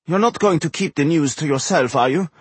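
high-pitched, needling gnome voice; insistent high gnome questioning; pestering gnome. A narrator's reading. Narrator plays gnome pestering.

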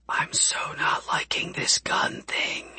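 breathy hushed whisper, slow. A narrator's reading. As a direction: whisper it nervously under your breath. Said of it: "Tessa whispered".

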